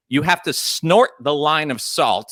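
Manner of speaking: laughing through the line; chuckling as he explains. Real, not acted. Laughs describing the drink.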